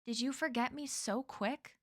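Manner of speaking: a hint of old New England; New England accent. Stranger posing as a bus driver, light New England accent. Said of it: "he said in a New England accent".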